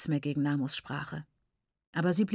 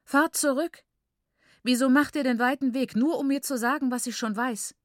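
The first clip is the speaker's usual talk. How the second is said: screaming mother; 6 semitones higher than usual. Acted. Grieving mother screams at the visitors to go back. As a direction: scream it in despair. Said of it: "schrie sie".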